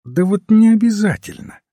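high, lightly smiling contradiction; faint smile. A narrator's reading. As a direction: gently contradict with a hint of a smile. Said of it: "ответил священник со слабой улыбкой".

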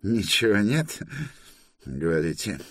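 high, put-on official's query; questioning inspector. Inspector hears they have no papers, officious query. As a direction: echo it high as a challenge.

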